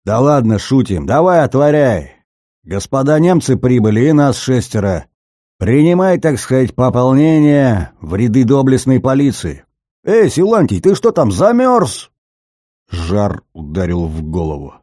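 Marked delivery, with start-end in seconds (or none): 0.0-9.7 raised, mocking shouts; loud jeering calls. Rowdy men calling at the gate. 10.0-12.1 much higher, loud taunting call; high mocking call. Calling again at the gate.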